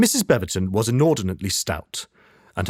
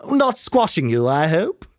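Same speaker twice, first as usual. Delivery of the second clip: gushing lady; 8 semitones higher, 3 dB louder than usual. Acted. Stout lady squashes Mr Brown.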